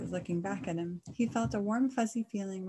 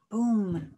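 loud boom; 8 dB louder than usual. A narrator's reading. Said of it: "With a thud".

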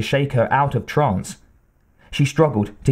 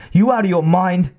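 higher and louder, incredulous; incredulous anger; 7 semitones higher, 3 dB louder than usual. A narrator's reading. Soldier challenging the Major's plan, higher and incredulous. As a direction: snap back in disbelief.

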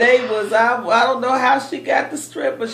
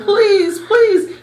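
pleading, rising higher to the last please; crying prayer; 5 semitones higher than usual. Retold or imitated. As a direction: beg God like a scared little girl. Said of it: "And I was praying and crying like".

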